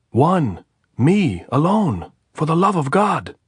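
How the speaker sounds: high, loud, drawn-out plea; desperate shout. A narrator's reading. Andres pleading to be let in, shouting. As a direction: stretch out "Me, alone" begging.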